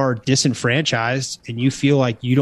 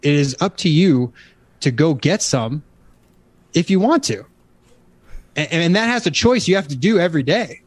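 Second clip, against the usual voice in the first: preaching; 4 semitones higher than usual. Real, not acted. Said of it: "I love it when you start preaching already".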